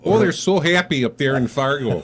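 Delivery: put-on light Minnesota Fargo accent. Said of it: "I could just keep talking like that".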